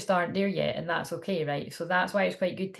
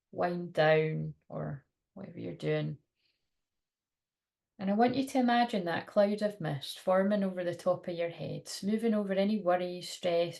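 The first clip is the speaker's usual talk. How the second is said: guided meditation. Acted. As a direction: lull them gently.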